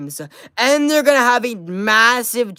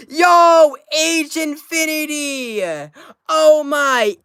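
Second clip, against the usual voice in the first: excited shout; 7 semitones higher, 4 dB louder, slower than usual. Real, not acted. Hype shoutout for a donation.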